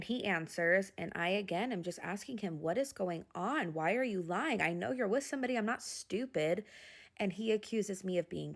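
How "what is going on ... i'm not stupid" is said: retold exasperated confrontation. Wife confronting husband about lying, retold exasperated challenge. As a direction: press him, rising into indignation.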